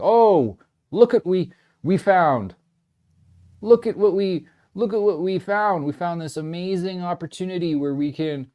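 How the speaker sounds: high, loud, falsely cheerful announcement; mock government. The government pitching crypto to ruined savers, in a high, loud mock-bright announcement. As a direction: sell it like a fake discovery. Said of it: "the government will kick in and be like".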